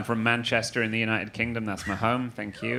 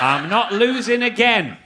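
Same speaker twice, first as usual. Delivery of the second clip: louder, higher, slow vengeful declaration; mock defiant; 8 semitones higher, 6 dB louder, slower than usual. New American vowing not to lose against Britain again. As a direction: relish the grudge. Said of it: "And I was like".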